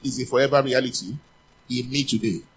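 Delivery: loud call-and-response line; congregation repeats. Shown as a demonstration. Preacher leads the church in a loud confession. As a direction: proclaim it for all to repeat.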